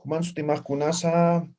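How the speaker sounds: Human Sutimaj Kunasa said level, with no question rise; flat Aymara question. Shown as a demonstration. Teacher contrasts Aymara questions with Spanish intonation. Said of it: "no hay esa entonación".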